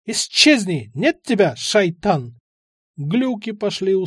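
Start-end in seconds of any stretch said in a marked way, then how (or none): 0.0-2.4 put-on a louder frightened old man's cry; old man banishing. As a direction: banish the devil in fear. Old man shouting after.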